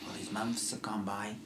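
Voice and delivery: hushed, breathy whisper of long loneliness; stage whisper. Acted. Last survivor whispering to the stranger. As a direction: whisper it to yourself, haunted.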